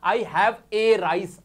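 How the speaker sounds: "I have a rice" said very slowly, "a" drawn out as the error; teacher's wrong-usage demo, slowed way down; wrong example. Shown as a demonstration. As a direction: say it slowly as a mistake to avoid. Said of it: "ऐसे नहीं बोल सकते".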